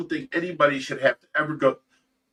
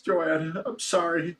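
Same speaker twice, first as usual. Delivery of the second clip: tearful; 4 semitones higher, 4 dB quieter, slower than usual. Real, not acted. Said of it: "I'm done with the tears".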